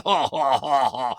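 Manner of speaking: mock villain laugh. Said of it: "in my deep, slightly accented, growly Scandinavian voice".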